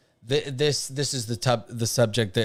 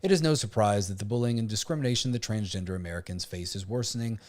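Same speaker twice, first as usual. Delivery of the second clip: deliberately monotone reading. Pretend. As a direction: read it out in a dull, even monotone. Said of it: "reading this in a monotone, uh, voice on purpose".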